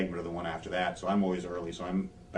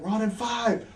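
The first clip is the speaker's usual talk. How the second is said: high, called-out countdown; mock crew countdown call; 4 dB louder, slower than usual. Crew counts down as wrestler laughs, high countdown call. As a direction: imitate a stage manager counting down.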